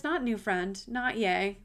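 flat letdown echo of her own cheer; wry disappointed retake; deflated. Retold or imitated. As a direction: drop the joy out of not new friend, not yay. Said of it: "And then I realized".

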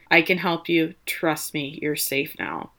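understated, soft doctor's comfort; gently reassuring. Retold or imitated. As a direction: lightly act out soothing a patient. Doctor reassures distressed patient in retelling.

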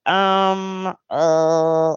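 lightly voiced awkward stammer; stammering Katie. Katie stuck for an answer, hesitant stammering. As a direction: hem and haw, lost for words. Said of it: "Katie's just kinda standing there like".

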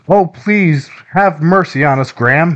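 high-pitched, melodramatic begging; hammed-up boyish plea for forgiveness; pleading cry. A narrator's reading. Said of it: "pleaded for forgiveness".

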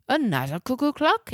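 put-on exclaimed question in a German accent; thick German accent. A narrator's reading. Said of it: "in his thick German accent".

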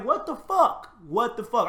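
high, loud, disbelieving cry; baffled Job. Retold or imitated. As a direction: act out Job losing it in shock. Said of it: "He probably was like".

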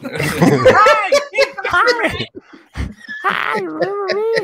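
put-on high, loud squeaky baby shout; newborn voice. Newborn through the Post-it hole.

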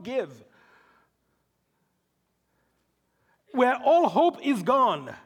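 urgent, building preaching delivery; forceful preaching. Acted. Preacher to Christians facing hopeless trials, forceful preaching. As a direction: pile up the hardships with conviction.

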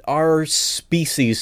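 slow, deliberate our species; careful pause. Real, not acted. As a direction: weigh the words our species slowly. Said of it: "so to speak".

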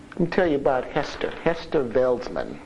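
ordinary delivery

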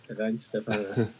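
"Weinstefana" starting with a V sound; German V. Shown as a demonstration. Trying out the classic V on the beer, "Weinstefana" slowly with V. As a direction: say the W of "Weinstefana" as a drawn-out V. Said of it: "it's the classic V".

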